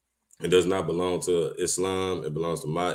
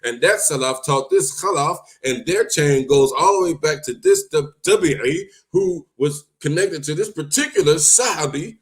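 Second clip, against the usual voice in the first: boring scholar; 6 semitones higher, 5 dB louder than usual. Retold or imitated. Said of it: "guys that's even more boring than I am that can go".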